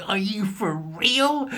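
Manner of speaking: slow, breathless whisper of disbelief. Real, not acted. Whispering his disbelief at the controllers headline. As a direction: hiss it in amazed disbelief. Repeats it breathless after laughing.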